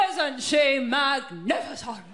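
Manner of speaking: slow, mock-awed admirer; hushed-crowd style wonder, played slow; awed admiration. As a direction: marvel at it, drawn right out. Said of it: "everyone just gathers around you going".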